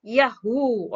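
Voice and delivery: a high, loud cheer of delight; joyful whoop. A narrator's reading. Husband cheering on the phone, loud and high-pitched. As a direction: whoop like you just won. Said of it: "ایک نعرہ بلند ہوا تھا".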